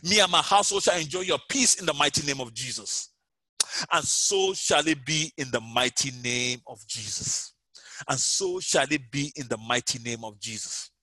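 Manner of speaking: pleading prayer over music, fading at the end; fervent prayer. Acted. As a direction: drive out fear with conviction. Leads prayer against fear.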